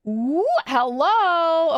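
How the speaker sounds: slow, flirty ooh hello; flirty drawn-out hello. Real, not acted. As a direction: purr it at someone attractive. Reacting to attractive character.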